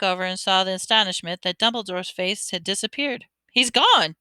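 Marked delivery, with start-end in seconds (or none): 3.5-4.2 higher, louder cry of surprise; young boy shocked the wizard vanished; surprised exclamation. Acted. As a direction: blurt it out astonished. Ron exclaims about vanished card.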